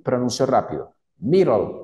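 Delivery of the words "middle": "Middle" with a quick tapped R, like MI-rol. Shown as a demonstration. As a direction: flap the D in "Middle". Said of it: "ahí escuchan es una R".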